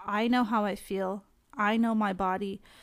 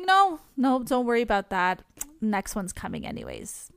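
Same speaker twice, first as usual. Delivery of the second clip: lightly acted polite refusal; brushing off; 3 dB louder than usual. Acts out her hasty refusal.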